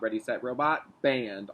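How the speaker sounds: lightly robotic "Band", even and stiff; a hint of a robot saying "Band". Shown as a demonstration. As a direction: say "Band" like a mild little robot. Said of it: "Like a robot".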